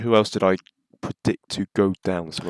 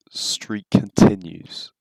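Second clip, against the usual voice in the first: whisper; 2 semitones higher, 6 dB louder, much slower than usual. Pretend. Jinxing his good streak.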